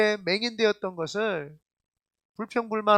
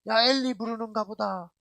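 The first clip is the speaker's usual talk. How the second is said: lightly acted scoffing onlooker, higher pitched; mock jeering; 3 semitones higher than usual. Pastor imitates onlookers ridiculing Jesus, mock jeering. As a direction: call the others over to gawk, mockingly. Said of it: "그렇게 조롱을 합니다".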